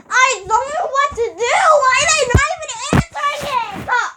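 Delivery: high frantic pleading; distraught, voice up high; panicked. Real, not acted. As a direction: panic while calls go unanswered. Panicking, nobody answers.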